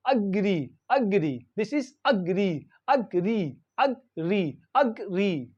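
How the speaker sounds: "agree" with a short schwa first, stress on the long final ee; demonstrating pronunciation. Shown as a demonstration. Teacher models the word agree for learners, careful pronunciation. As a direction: say "agree" carefully as uh-GREE, falling at the end. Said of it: "So how do we pronounce?".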